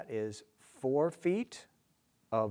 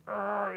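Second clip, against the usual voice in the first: mock grating noise; 8 semitones higher than usual. Shown as a demonstration. Mimics intrusive pickup syllable.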